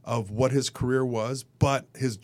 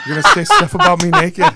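laughing; 10 dB louder than usual. Real, not acted. Laughing at friend's teasing.

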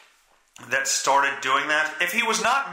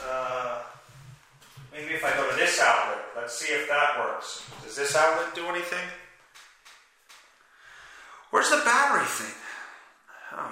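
ordinary talk, nothing marked

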